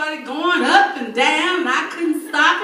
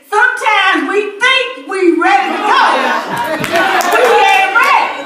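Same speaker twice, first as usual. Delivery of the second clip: preaching declaration; 4 semitones higher, 5 dB louder than usual. Real, not acted. Testimony lesson to congregation.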